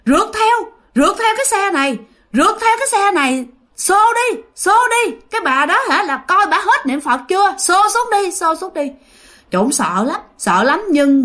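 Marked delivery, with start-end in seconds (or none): 0.1-8.9 high, urgent ghostly urging; high ghost voice urging a chase. Acted. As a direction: egg the others on to chase the bus. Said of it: "ổng lại tiếp tục nghe".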